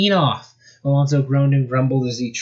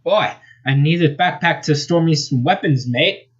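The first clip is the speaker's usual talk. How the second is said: higher-pitched, mild grumble; grumbling; 5 semitones higher than usual. Acted. Skunk gripes about his torn backpack, grumbling. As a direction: grumble it lightly as a complaint. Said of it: "he grumbled".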